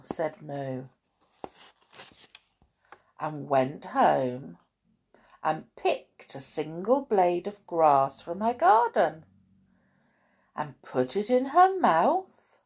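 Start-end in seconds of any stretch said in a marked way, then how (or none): 3.2-12.6 measured picture-book reading; children's story narration. A narrator's reading. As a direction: read it to small children, pausing between phrases.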